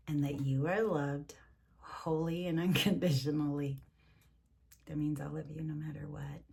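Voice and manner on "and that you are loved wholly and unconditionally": tender whisper. Real, not acted. Tender blessing to grandkids.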